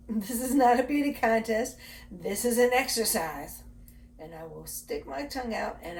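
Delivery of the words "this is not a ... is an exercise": laughing. Real, not acted. Laughs at sticking tongue out.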